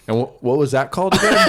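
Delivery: fast, laughing question; mock eager student through laughter. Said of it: "I go from like".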